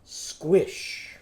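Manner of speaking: "Squish" whispered with no voice. Shown as a demonstration. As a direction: breathe out "Squish". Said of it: "It's just gonna be a what?".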